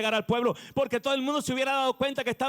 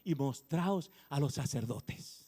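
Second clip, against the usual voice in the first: Jesus commanding; 8 semitones lower, 6 dB quieter, slower than usual. Retold or imitated. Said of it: "Jesús le dijo".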